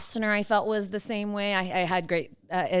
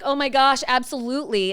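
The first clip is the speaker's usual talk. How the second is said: re-enacted gushing reply, pitched up; higher, keen retold yes; eager agreement; 6 semitones higher, 5 dB louder than usual. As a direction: act out being thrilled to help. Acts out her eager reply.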